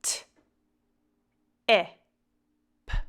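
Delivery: T, I, P as separate sounds, pauses between; crisp T, short I, popped P; sounding out. Shown as a demonstration. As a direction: say T, I, P as sounds, not names. Sounding out a word to blend.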